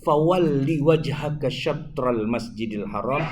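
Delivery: slow chanted Arabic verse; Quran recitation. Acted. Preacher reciting the verse to the congregation, slow chant. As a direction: intone the verse slowly like a reciter.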